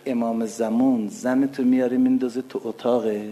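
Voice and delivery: retold line with a light Turkish accent; a hint of Azeri Turkish accent, quietly; lightly Turkish-accented Persian. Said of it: "گفت به لهجهٔ ترکی".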